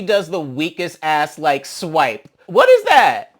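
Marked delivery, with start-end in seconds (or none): 2.5-3.4 sudden high, loud What is that; jolted up in mock outrage; shocked disbelief. Real, not acted. Reacting to a weak swipe on screen, shocked and loud.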